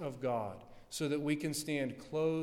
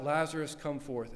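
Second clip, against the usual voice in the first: calling out; 4 dB louder than usual. Acted. Christ calls Lazarus from grave.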